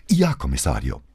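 put-on mildly relieved young subordinate; understated relief. A narrator's reading. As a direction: answer with a touch of relief. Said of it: "dem man die Erleichterung darüber anhörte".

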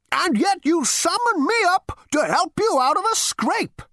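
put-on high, dry old ghost; a ghost scoring a point. A narrator's reading. Ghost speaks.

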